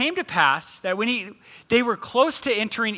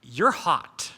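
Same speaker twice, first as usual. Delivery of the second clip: mock husband; 7 semitones lower, 4 dB quieter than usual. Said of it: "He looked at his wife and said".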